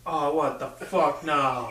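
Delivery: slow, laughing exasperation; exasperated laugh. Retold or imitated. Eating lunch alone and hearing whispers, slow laughing exasperation. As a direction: groan it out with a laugh.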